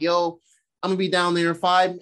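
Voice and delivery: lightly voiced stern mother; a touch of motherly warning; retold mom warning. Thor's mom warning her son, lightly acted warning. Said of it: "on some mom shit".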